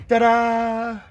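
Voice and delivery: high, showy ta-da; happy reveal of the shelf; triumphant ta-da. Real, not acted. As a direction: present it like a magic trick. Shelf finally comes out.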